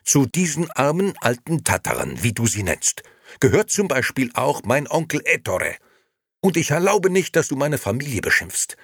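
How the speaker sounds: high, forceful rebuke; loud indignation. A narrator's reading. Liliana defends her uncle to Nino, loudly indignant. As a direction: scold him at full voice. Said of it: "rief sie und stemmte die Arme".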